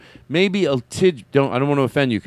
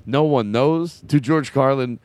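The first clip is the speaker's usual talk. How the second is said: Jackie Mason impression; 2 semitones lower than usual. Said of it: "when I talk like this, I'm getting pretty close to the way he talked".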